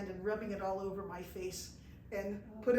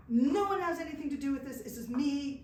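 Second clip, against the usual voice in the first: raised, higher voice, pleading with the guards; retold yelling; 4 semitones higher, 5 dB louder than usual. Woman at checkpoint, raised defiant plea to guards. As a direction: shout to protect the others, sliding back down. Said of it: "and I'm screaming at them".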